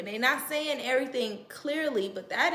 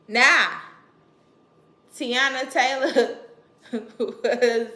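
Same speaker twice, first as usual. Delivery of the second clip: excited build-up; 9 dB louder, slower than usual. Real, not acted. Excited story build-up, laughing.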